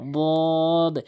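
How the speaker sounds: "বদ" loud, held on a level note; heavy Dad. Shown as a demonstration. Teacher saying "like this", loud long "বদ". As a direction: sustain a heavy "বদ" from the tongue's edge. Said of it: "এইভাবে".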